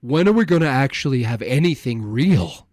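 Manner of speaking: mocking translation. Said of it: "let me translate".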